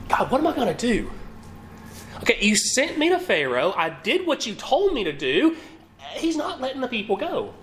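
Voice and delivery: mock-panicked plea to God; panicked Moses. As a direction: voice Moses as a worried man at his wits' end. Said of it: "sense of panic maybe in Moses' response".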